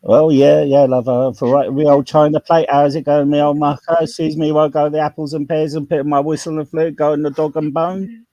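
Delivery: cheerful Cockney geezer voice; Cockney accent. Shown as a demonstration. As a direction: lay on a thick Cockney banter. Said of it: "I'll speak a bit of Cockney".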